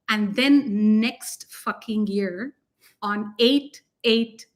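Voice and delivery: slow teasing lead-in bursting into loud excitement; excited build-up. Real, not acted. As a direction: build the hype and explode on the question. Hyping announcement of Egypt trip.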